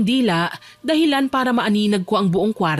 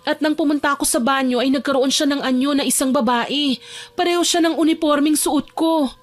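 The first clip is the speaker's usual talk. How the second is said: somewhat higher character voice, confiding; uneasy Alona; 6 semitones higher than usual. Acted. Alona tells her kuya about the shadow, uneasily. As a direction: recount the haunting as Alona, a little higher.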